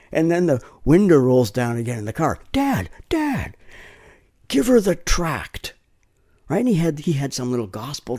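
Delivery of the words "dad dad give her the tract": put-on kid calling out. Kid calls from car window.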